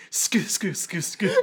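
short repeated "sku" sobs, imitated; mock crying noise in little bursts; imitated strange crying. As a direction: imitate odd staccato weeping. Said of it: "he's making a stra-, strange sound".

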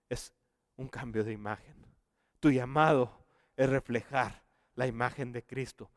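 tender preacher's hush; hushed preaching. Acted. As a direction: draw the listeners in close, almost confiding. Quiet intimate preaching passage.

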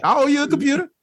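very high, meek apology voice; joking as the chastened girl, high meek voice; mock sheepish. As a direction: play it small and sorry.

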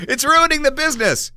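high, overblown indignant cry; mock dramatic outrage. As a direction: ham up the outrage. Joking overstatement, then retracted.

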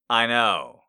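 ordinary talk

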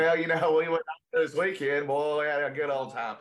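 twangy West Texan small talk; McConaughey. Acted. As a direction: slip into a folksy West Texas accent. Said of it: "it turns into McConaughey real quick".

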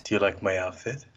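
lightly done monotone villain voice. Retold or imitated. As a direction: say it in a flat monotone. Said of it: "and that monotone voice".

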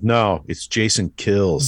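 drawn-out cocky correction; slow, self-assured mock correction. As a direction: imitate a cocky know-it-all, drawing it out. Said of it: "Very, very cocky".

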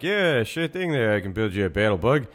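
chirpy know-it-all impression; Cliff Clavin voice. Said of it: "Cliff Clavin's like".

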